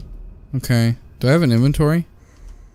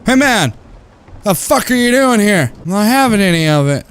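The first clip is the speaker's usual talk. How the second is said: mimicking the intruder; 7 semitones higher than usual. Mimicking game character's yell.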